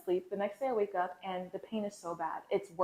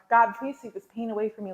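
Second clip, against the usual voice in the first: louder, re-enacted plea to God; retold crying out; 3 semitones higher, 6 dB louder than usual. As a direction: cry out in prayer, as a retelling. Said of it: "I'm crying out, and I'm like".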